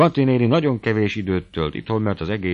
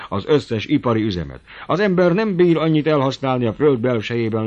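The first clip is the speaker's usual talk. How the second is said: starts loud and high, settles into eager explaining; visionary old uncle; 4 semitones higher, 5 dB louder than usual. Acted. Old uncle selling his grand heating dream, eager. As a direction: paint the vision with rising excitement. Berci dreams of hot water.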